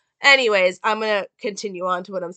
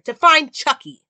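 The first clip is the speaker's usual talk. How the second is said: determined Karen; 7 semitones higher, 9 dB louder than usual. Retold or imitated.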